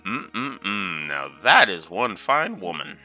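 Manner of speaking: appreciative lecherous murmur; leering old lecher. Acted. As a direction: savor it like a dirty old man. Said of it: "you really do sound like a dirty old man".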